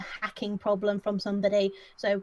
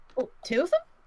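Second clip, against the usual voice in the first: astonished, surprised double-take, pitched up; 6 semitones higher, 4 dB louder than usual. Answering the game master about the machines in character: sounding surprised. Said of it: "why are you sounding so surprised?".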